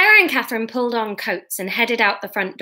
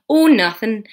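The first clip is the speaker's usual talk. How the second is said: Scottish accent; 2 semitones higher, 5 dB louder than usual. Shown as a demonstration. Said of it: "No, what is Scottish?".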